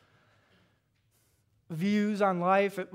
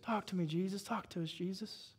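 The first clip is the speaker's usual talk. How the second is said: prayer with the congregation; 11 dB quieter than usual. Shown as a demonstration. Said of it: "Say that with me".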